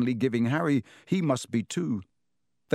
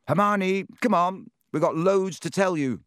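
calling out; 7 semitones higher than usual. Acted. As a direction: call her out of the stall. Hammering on stall door, calling.

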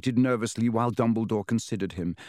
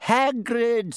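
high, louder call to cut him off; loud Dumbledore; 12 semitones higher, 4 dB louder than usual. A narrator's reading. Dumbledore silencing ranting Hagrid, loud. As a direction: raise the voice to stop the rant. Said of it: "said Dumbledore loudly".

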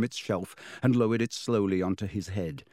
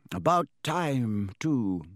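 put-on slow, amused old wizard; lightly voiced old headmaster; 2 semitones higher, much slower than usual. Dumbledore voiced.

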